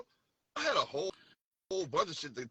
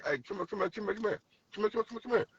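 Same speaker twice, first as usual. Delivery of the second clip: put-on calling out to girls; 7 semitones higher, much faster than usual. Shown as a demonstration. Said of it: "we try to talk to new girls".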